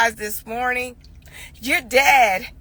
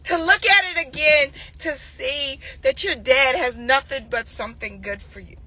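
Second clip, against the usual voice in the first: tearful plea. Real, not acted. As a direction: plead through real tears. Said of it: "cry shout".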